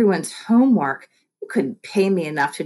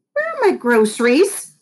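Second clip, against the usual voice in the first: put-on demanding old woman; 5 semitones higher, 3 dB louder than usual. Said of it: "demanded Miss Prince".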